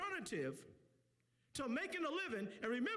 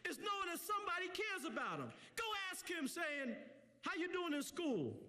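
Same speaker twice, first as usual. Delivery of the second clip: preacher acting out an encouraging exchange; lively, impassioned pulpit delivery; preaching; 4 semitones higher than usual. Real, not acted. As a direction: urge the crowd to step in.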